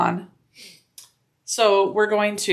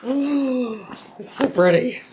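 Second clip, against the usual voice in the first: gushing; 5 semitones higher, slower than usual. Real, not acted. Gushing over finished bag.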